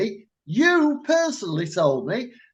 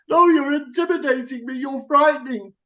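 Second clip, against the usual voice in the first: imitating the shop girl; 6 semitones higher, 3 dB louder than usual. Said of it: "She said".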